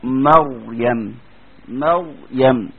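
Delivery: مريم stretched very slowly with a full, heavy ر; slow tajweed demo of a heavy ر; heavy Raa. Shown as a demonstration. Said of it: "لما تيجي تقول إيه؟".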